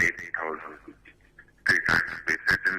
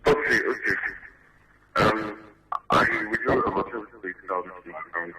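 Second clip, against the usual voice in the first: speaking up; 3 semitones higher than usual. Real, not acted. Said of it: "speak a little clearer".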